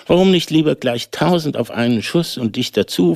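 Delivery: high, boastful tailor voice; arrogant tailor. A narrator's reading. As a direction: brag it out proudly. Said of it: "fragte der hoffärtige Schneider".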